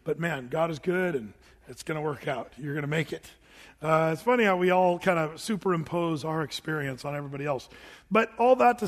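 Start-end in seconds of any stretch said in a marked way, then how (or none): 0.0-3.3 gentle reassurance. Retold or imitated. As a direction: ease them down gently, it'll work out. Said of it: "just tell 'em".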